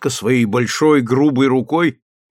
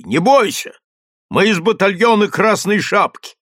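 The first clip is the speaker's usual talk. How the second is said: mild shout; 7 semitones higher than usual. Acted. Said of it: "Сержант закричал ей".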